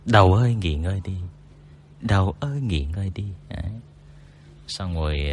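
lightly done soothing sleep-guide voice; mock hypnosis. Shown as a demonstration. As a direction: talk them down to sleep, half playful. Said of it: "Thôi miên đi vào giấc ngủ".

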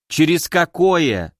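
slow, spiteful snap; snapping angrily. Acted. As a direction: spit the question out angrily. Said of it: "злобно бросила Кори".

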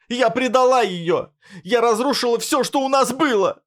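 high wailing cry; anguished scream. A narrator's reading. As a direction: scream the guilt until it breaks. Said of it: "Её крик оборвался всхлипом".

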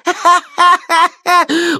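high jeering giggle; shrill mocking cackle. A narrator's reading. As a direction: cackle at him. Suvenir laughing at Kharlov.

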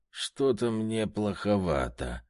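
slow, queasy moan; a touch of drunken nausea; groaning. Acted. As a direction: moan it like you might be sick. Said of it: "простонал Бернар".

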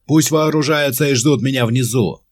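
loud, high order called while running; shouting on the run. A narrator's reading. Commander shouting orders while running out, loud. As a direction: call the troops to arms. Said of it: "крикнул он на бегу".

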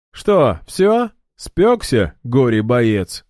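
high, loud, jeering taunt; a slow, drawn-out mock at the end. A narrator's reading. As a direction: sneer at the worn-out opponent. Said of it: "насмешливо поинтересовался Ильдар".

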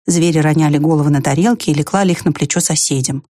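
plain reading voice

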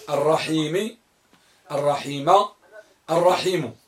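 الرحيم said three ways: الرحيمِ, الرحيمُ, الرحيمَ; three case endings. Shown as a demonstration. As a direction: cycle the final vowel of الرحيم through i, u, a. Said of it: "في الرحيم ثلاثة أوجه". (نطق الرحيم بالحركات الثلاث)

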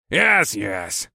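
a touch of grumbling impatience; grumbled. A narrator's reading. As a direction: grumble it dismissively. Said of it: "he grumbled".

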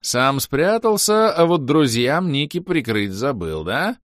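high, slow mocking sing-song; a villain teases the hero, high and slow; gloating taunt. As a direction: drag it out high to mock him.

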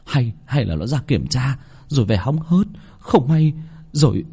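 halting, stammered guesswork, rising at the end; bewildered inner wondering. Acted. Hunchback servant wondering how she died, bewildered. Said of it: "trong đầu tự hỏi".

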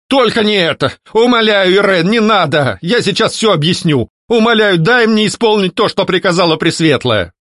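high, pleading ghost; begging. A narrator's reading. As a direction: plead desperately. Ghost begging not to be dispelled.

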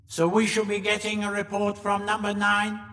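high alien monotone; monoid leader. A narrator's reading. Monoid leader addressing his deputy.

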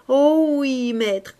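high, loud, overjoyed exclamation; rapturous joy. A narrator's reading. Young woman gushing over her pearl necklace, rapturous. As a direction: gush with delight over the pearls. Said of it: "la joie qu'elle avait dans les yeux".

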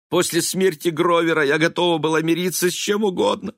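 высоким надрывным голосом сквозь слёзы; причитай, плача. A narrator's reading. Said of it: "Элиза заплакала". (Элиза плачет перед сыном, высоко и надрывно)

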